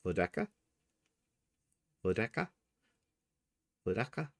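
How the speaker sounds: Vodica as "vo-DECK-a", rising like a question; unsure pronunciation. Shown as a demonstration. Host mixed up over surname, tentatively asking Vodica as "vo-DECK-a". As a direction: try out Vodica with an "eh" middle, each time questioning. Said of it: "I'm still mixed up".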